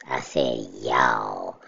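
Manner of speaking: slow, falling y'all, drawn out; stress on y'all. Real, not acted. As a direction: lean hard on y'all and let it fall. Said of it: "my accent".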